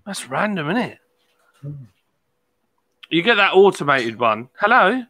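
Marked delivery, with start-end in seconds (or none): 4.6-5.0 chavvy voice. Retold or imitated. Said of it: "it's proper chavvy voice".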